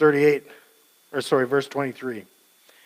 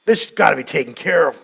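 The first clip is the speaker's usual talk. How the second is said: mild stern verdict; 5 dB louder than usual. Retold or imitated. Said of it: "He's like".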